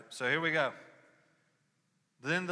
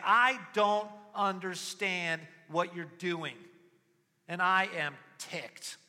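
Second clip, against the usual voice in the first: crying out to God; 7 semitones higher, 8 dB louder, slower than usual. Retold or imitated. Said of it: "crying out to God".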